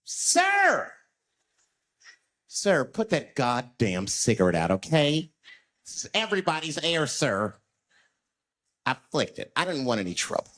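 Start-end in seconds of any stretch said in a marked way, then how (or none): 0.0-7.6 mock outraged bus rider; indignant passenger. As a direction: scold the smoker like an uptight rider. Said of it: "people freaked out".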